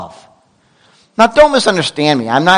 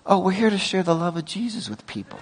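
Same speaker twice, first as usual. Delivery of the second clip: sarcastic missionary reply; 2 semitones higher, 11 dB quieter than usual. Pretend. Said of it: "Could you imagine if I yelled".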